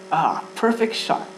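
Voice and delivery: slow delight rising to a high, loud whoop; cheering shout. Acted. Applejack cheering Rainbow Dash's horseshoe toss, whooping shout. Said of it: "Applejack shouts".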